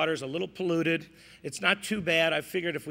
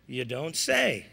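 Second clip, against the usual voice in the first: slow, flat reply; 3 semitones lower, slower than usual. Pretend. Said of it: "It's all in the timing".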